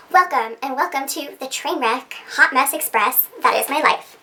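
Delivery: mock anchor intro, evenly paced and steady; a hint of news anchor welcome; news broadcaster. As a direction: open like a TV news host at a desk. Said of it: "I feel like a news broadcaster".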